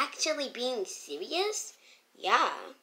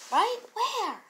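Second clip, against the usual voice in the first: high-pitched; 9 semitones higher than usual. Acted. Startled exchange about who's behind.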